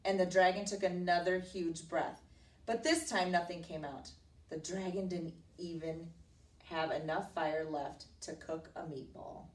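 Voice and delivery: read-aloud storybook telling; emphatic, measured read to a child; story narration. A narrator's reading. Teacher reading a princess story to a child, narrating expressively.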